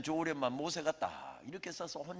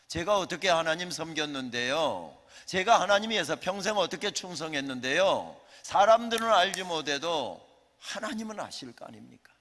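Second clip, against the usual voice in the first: rising, louder anguished plea; louder, higher desperate protest in prayer; pleading protest; 3 semitones higher, 8 dB louder than usual. Acted. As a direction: cry out to God with wounded pride. Moses protests to God.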